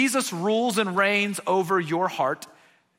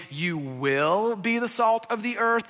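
"You will be" read as a future promise, a little slower; wrong version as a promise; 3 semitones higher, slower than usual. Shown as a demonstration. Preacher shows the wrong reading to his congregation, mild contrast. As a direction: set it up as the reading to reject. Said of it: "This is not a".

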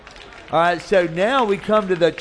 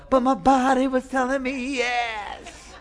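body saying yes; 8 semitones higher, slower than usual. Acted. Body's craving voice, comic sermon.

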